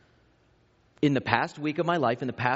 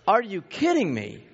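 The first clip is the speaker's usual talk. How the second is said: raised, higher-pitched retold exasperation; mock-outraged parent; exasperated disbelief; 5 semitones higher than usual. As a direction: react like a dad who can't believe it. Angry parent retelling kids' mishap.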